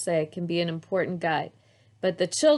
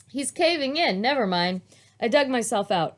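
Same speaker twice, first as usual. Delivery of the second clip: mock panic; 7 semitones higher, 4 dB louder than usual. A narrator's reading. Child calls for help.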